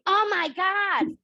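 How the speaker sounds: high, drawn-out gasp of shock; loud-ish, swooping cry of dismay; horrified blurt. Shown as a demonstration. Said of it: "instead of saying".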